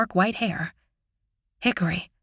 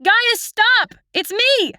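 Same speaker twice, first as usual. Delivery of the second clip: crying out; 13 semitones higher, much slower than usual. Acted. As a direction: call after him with everything you have. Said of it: "I cry out".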